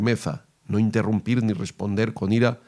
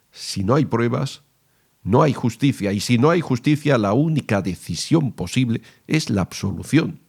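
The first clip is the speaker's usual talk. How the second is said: rising volume; 3 semitones higher than usual. Shown as a demonstration. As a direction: raise the volume and hit "absolución" hard. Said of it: "aquí subes un poco el volumen".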